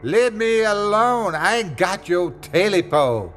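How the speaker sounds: high, frightened yell; Smitty yelling back at the creature. Acted. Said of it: "Smitty yelled back".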